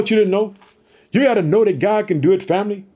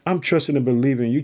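soft, humble prayer to God; quiet prayer; 5 semitones lower, 4 dB quieter, faster than usual. Shown as a demonstration. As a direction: pray it low and close, asking for help.

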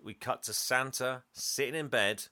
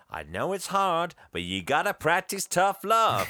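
higher and louder, firm advice; a hint of a stern Mrs Claus; wife urging tough love, lightly voiced; 5 semitones higher, 5 dB louder than usual. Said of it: "she's like".

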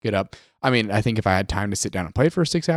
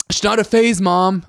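mock emo teen; 8 semitones higher, 5 dB louder than usual.

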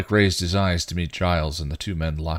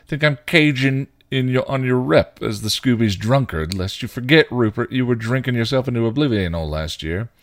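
raised, louder angry retort; shot back; 7 semitones higher, 7 dB louder than usual. A narrator's reading. Spike throwing Giles's drinking back at him, angry and loud. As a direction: fire it right back at him, heated. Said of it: "he shot back".

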